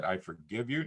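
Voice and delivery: low, soft retelling of forgiveness; quiet forgiveness. Retold or imitated. Retold forgiveness of the bomber.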